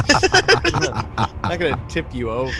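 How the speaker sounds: high put-on animal voice; high, playful creature voice. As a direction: lift the voice up high for the pet. GM voices Turtle replying.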